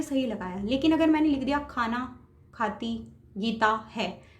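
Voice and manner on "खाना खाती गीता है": "खाना खाती गीता है" read very slowly as a wrong example; wrong word order. Shown as a demonstration. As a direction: spell out the jumbled sentence slowly. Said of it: "तो क्या ये सही है?". ("खाना खाती गीता है" बहुत धीरे, गलत क्रम का उदाहरण)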